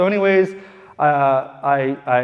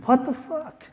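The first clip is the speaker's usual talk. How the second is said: mock outrage; 10 semitones higher than usual. Outraged at lender refusal.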